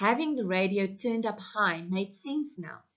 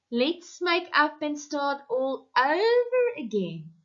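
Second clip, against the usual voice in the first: higher, mocking repeat of the radio line; bitter mockery; 6 semitones higher than usual. Wife throwing the radio plea back at her husband, bitterly. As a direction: parrot the host's words with contempt. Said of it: "she said bitterly".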